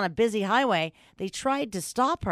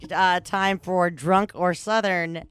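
announcer voice; 2 semitones lower than usual. Pretend. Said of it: "how I did that with my voice".

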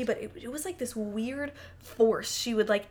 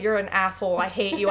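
loud harsh; 2 semitones lower, 6 dB louder than usual. Pretend. Mock harsh break-up line.

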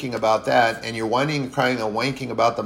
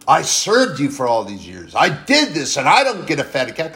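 resentful elder son; 4 semitones higher, 5 dB louder than usual. Retold or imitated. Elder son's resentful complaint.

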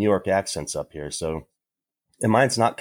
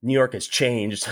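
slow amazed remark; slower than usual. Retold or imitated. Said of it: "I was like".

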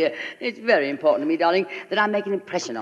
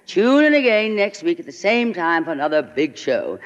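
announcer voice. Retold or imitated. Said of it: "hear the announcer say".

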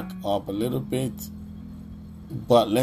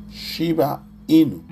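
excited; 6 semitones higher, 5 dB louder than usual. Real, not acted. Repeats coin name emphatically.

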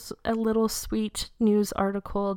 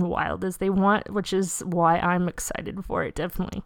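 voice giving out; 3 semitones lower than usual. Real, not acted. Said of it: "Sorry, I'm losing my voice slowly here".

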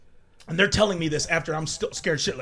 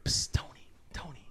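soft unvoiced hiss of a name; whispered call; 13 dB quieter than usual. Little brother calling from bed at night, a soft whisper. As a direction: whisper it so nobody else wakes.

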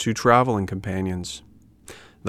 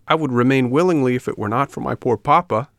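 higher, louder pleading puppet voice; 4 semitones higher, 5 dB louder than usual. Acted. Puppet worrying for his poor papa, higher pleading voice. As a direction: plead on papa's behalf, pitched up.

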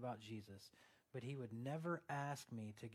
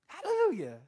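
high, loud hallelujah; joyful shout; 15 dB louder than usual. Real, not acted. Preacher celebrating his healed shoulder, shouting hallelujah. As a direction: burst out praising.

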